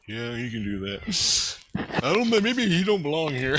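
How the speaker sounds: lightly mock the counselor's doubtful answer; imitating Tina. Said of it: "Tina's like".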